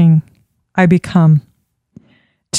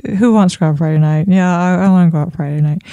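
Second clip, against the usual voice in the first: bored monotone; 3 semitones lower, faster than usual. Shown as a demonstration. Coach showing a dull question to friends. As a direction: mumble the plan with no energy. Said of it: "not talking to each other like".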